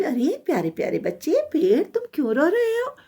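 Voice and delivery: coaxing, lifted storybook voice; tender concern. Acted. Forest goddess asks the weeping little tree, tender concern. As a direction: ask as if soothing a small crying child.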